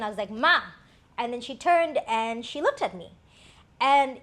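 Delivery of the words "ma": retold child's loud call to mom; frustrated call. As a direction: call out Ma, mildly exasperated. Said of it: "out of maybe frustration".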